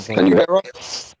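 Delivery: slow, distorted robot-like call audio; broken connection robot voice; robotic voice. Real, not acted. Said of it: "with this robotic voice".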